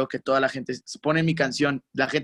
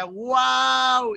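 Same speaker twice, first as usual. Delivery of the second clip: amazed wow; 9 semitones higher than usual. Retold or imitated. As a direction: let the wow soar in wonder. Song playing abroad.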